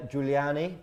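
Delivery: attempted Italian accent. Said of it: "in my best Italian accent".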